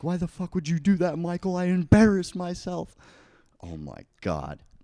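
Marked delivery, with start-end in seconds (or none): 0.0-2.9 livid, very high, very loud furious shriek. Retelling how a prank victim screamed at the friends: imitating someone screaming. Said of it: "he was screaming at us".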